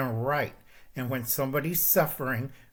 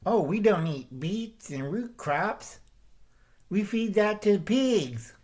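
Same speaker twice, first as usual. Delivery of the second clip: mocking Irish peasant; 7 semitones higher than usual. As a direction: scoff like a proud farmer who won't eat pig food. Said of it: "accounts from Irish people like".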